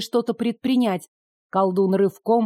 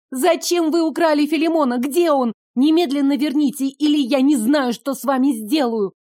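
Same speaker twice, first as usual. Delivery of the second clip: angry demand; 5 semitones higher, 3 dB louder than usual. Acted. Demanding her pet back.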